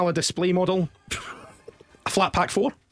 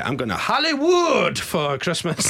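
hammed-up Hollywood; 2 semitones higher than usual. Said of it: "what on earth was that".

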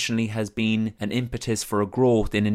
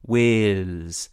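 Cork accent. Shown as a demonstration. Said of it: "the way that Wales sounds in a Cork accent is very patronising".

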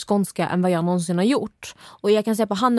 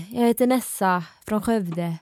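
slow, light imitation of a Skövde accent; half-hearted Skövde accent impression; Skövde dialect; slower than usual. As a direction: try on your friend's Skövde accent, slowly. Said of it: "kan du prata min dialekt?".

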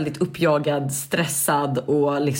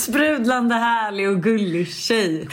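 higher, slow, sugary sing-song; mock bubbly; 4 semitones higher, much slower than usual. Listing what Alice is not, a slow mock-sugary tone. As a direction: ham up the sweet girl. Mocks bubbly girl type.

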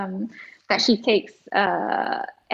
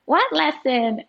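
higher, lightly voiced puzzled child; clueless five-year-old; 6 semitones higher, slower than usual. Five-year-old answering her mum, lightly imitated puzzlement. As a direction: play a blank little kid, lightly. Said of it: "she was like".

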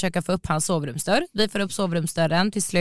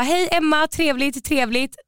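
high-pitched polite introduction, repeated; overbright greeting; 7 semitones higher, slower than usual. Retold or imitated. Undressed guest meets the family, overbright. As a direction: imitate flustered over-politeness.

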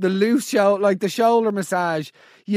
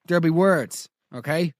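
normal talking voice

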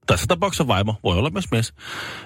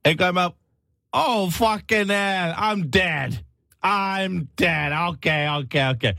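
high-pitched voice from inside a coffin; dead man's recording; 10 semitones higher, much slower than usual. Retold or imitated. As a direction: act out a dead man's dawning realization. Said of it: "Hän oli siis nauhoittanut tämmösen".

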